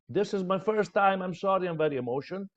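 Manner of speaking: quick, apologetic rush of a nervous beginner; mock nervous apology. Shown as a demonstration. Coach mimicking a nervous speaker's apology. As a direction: rattle off a timid excuse. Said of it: "Never start with apologies".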